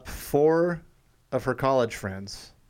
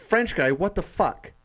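mock indignation; 6 semitones higher, slower than usual. Dad retells indignant text to daughter.

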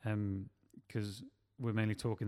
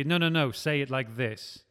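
louder, insistent correcting; bossy line reading; 2 semitones higher, 7 dB louder than usual. Acted. Director giving an actor a line reading, bossy. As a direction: correct them like an overbearing director. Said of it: "do a line reading for him. Say".

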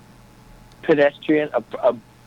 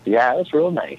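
a light put-on Minnesota accent; easygoing Minnesota accent. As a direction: chat like a folksy Minnesotan. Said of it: "I love that accent".

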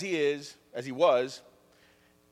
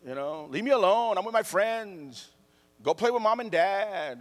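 put-on annoyed older sibling; 3 semitones higher than usual. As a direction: lightly act a big kid shooing a sibling. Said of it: "older siblings will tell their younger siblings".

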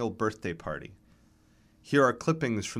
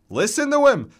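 put-on high, loud, vigorous old man's complaint; scornful old man with a lingering accent; reedy old man; 10 dB louder than usual. A narrator's reading. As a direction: appeal to the crowd in a reedy accented voice. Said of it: "His voice is reedy but vigorous".

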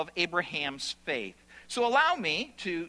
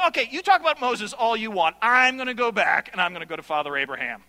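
Paul's challenge; 5 dB louder, faster than usual. Retold or imitated. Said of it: "He's going".

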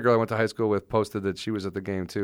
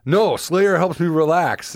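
higher, louder, slow insisting; mock kid protest; 7 semitones higher, 5 dB louder, slower than usual. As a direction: whine it like a stubborn kid.

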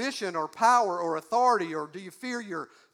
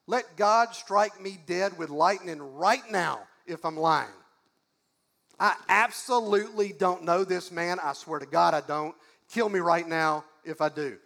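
insistent oath in Peter's role, voice only mildly raised; emphatic denial. Acted. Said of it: "Peter got more emphatic".

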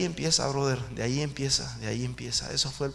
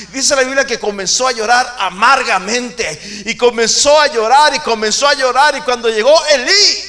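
rising, louder and louder on "llorar"; building preaching cry; 8 semitones higher, 14 dB louder than usual. Acted. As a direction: climb in force with each llorar.

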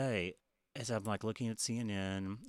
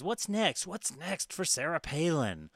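imitating the newscaster; 7 semitones higher, slower than usual. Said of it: "he says".

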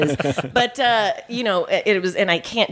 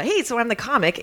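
bubbly eager; 6 semitones higher than usual. Retold or imitated. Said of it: "full of twinkles and sparkles and rainbows".

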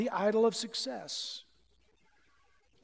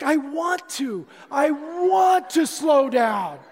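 loud, slow, drawn-out yell; frantic yell to slow down; desperate shout; 3 semitones higher, 7 dB louder, slower than usual. Retold or imitated. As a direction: plead at the top of your lungs. Answers speedometer while speeding.

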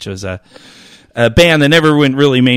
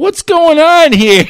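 laughing; 14 semitones higher, slower than usual. Retold or imitated. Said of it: "he's like".

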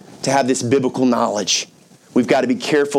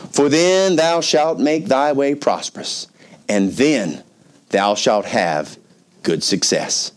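scripture reading; slower than usual. Acted.

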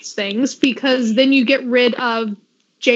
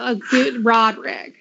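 Roderick stretched, Southern style; Southern accent; 3 semitones lower than usual. Retold or imitated. Trying out her aunt and uncle's Southern accent. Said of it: "sound a little bit like my aunt and uncle".

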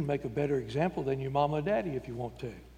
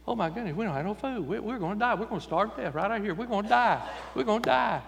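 whiny panic; 5 semitones higher than usual. Retold or imitated. Israelites panicking, no food.

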